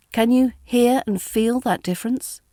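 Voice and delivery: ordinary talk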